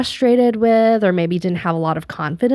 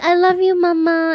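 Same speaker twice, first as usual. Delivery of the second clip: put-on tiny, high little baby voice; 8 semitones higher than usual. Recalling a child saying "I love you": imitating a tiny baby voice. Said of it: "the tiny little baby voice".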